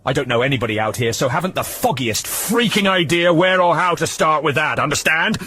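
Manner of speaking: loud, exasperated yelling; finally losing patience; angry loud tirade. Acted. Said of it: "she raised her voice".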